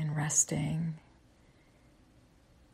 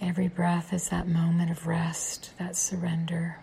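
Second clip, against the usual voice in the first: guided meditation; 3 dB quieter than usual. Acted. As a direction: guide them gently into the breath. Leads a closing breathing meditation.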